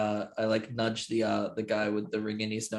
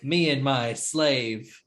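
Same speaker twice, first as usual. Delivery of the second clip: slow, louder in-character challenge; 2 semitones higher, 4 dB louder, slower than usual. Acted. Player to hobgoblin proposing a two-on-two match, drawn-out challenge. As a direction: draw out a challenge to the warriors.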